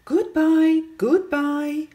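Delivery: busy bee goodbyes. Acted. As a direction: bustle off like bees. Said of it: "said the two bees very busily".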